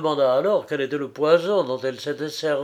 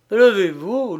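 higher, louder plea to rise; alarmed urging; 7 semitones higher, 7 dB louder than usual. A narrator's reading. Frédéric takes the silent woman's hand, alarmed urging. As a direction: urge her up with rising alarm.

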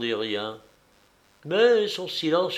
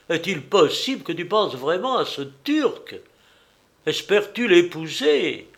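raised, pressing volley of reproachful questions; outraged father; 5 semitones higher, 5 dB louder than usual. Acted. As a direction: plead and scold, pitched high and building. Acted father's outraged tirade to daughter.

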